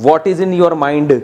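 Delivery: slow, over-careful village English with every consonant hit; mock a rustic speaker's English, word by word; imitating a villager's stiff English. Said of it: "کہتے ہیں نا".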